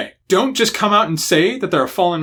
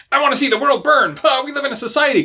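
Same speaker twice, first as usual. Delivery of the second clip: higher, hammed-up cartoon villain rant, quick; mock edgy villain; 8 semitones higher, faster than usual. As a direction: sneer it like a cheesy bad guy. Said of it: "kind of bullshit is really boring".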